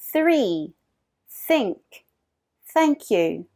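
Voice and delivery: three with the tongue lightly between the teeth; th model. Shown as a demonstration. Teacher modelling the th sound for repeating.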